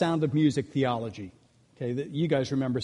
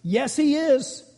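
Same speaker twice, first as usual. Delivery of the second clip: put-on blunt kid; 9 semitones higher, slower than usual. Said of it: "this little guy looks up and he goes".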